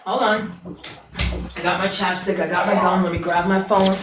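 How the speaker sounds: talking while chewing gum; words round a wad of gum. Real, not acted. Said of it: "I put a piece of gum in my mouth".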